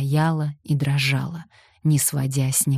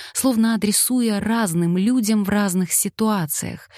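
ordinary delivery

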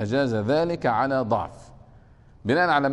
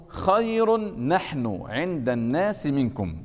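slow verse recitation; slower than usual. Shown as a demonstration. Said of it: "قوله".

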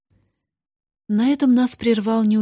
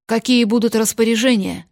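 louder, crisp soldier's reply; crisp military; 2 semitones higher, 7 dB louder than usual. Acted. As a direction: snap it out like a soldier. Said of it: "Уже по-военному чётко".

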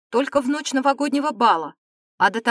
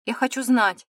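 firm demand, a bit louder; 5 dB louder than usual. A narrator's reading. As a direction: insist on being told. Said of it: "тут же потребовала Дина". (требовательно)

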